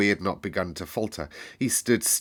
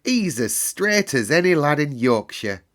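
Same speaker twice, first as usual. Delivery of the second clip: joyful; 6 semitones higher, 4 dB louder than usual. Acted. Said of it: "cried Dickon".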